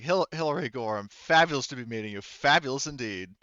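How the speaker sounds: posh character voice. Acted. Player voices posh character greeting.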